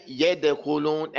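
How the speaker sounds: "Yadkhulun" with a faint bounce on the d; light qalqala. Shown as a demonstration. Teacher models the right way, with a light bounce. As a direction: barely release the d in "Yadkhulun". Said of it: "So you're gonna say".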